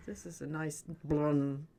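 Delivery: put-on slow toddler babble, blum for car; like a two-year-old admiring a car. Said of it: "Did you talk like that?".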